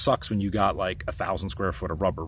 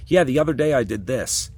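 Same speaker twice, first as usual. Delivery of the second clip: retold boast; 4 semitones higher, 5 dB louder than usual. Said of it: "say something to you that pisses you off".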